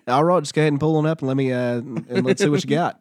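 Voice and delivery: quick Australian teller patter; Australian accent. Retold or imitated. Teller instructing drive-thru customer, Australian accent. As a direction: run it off briskly in mock Australian. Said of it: "Where'd the Australian guy go?".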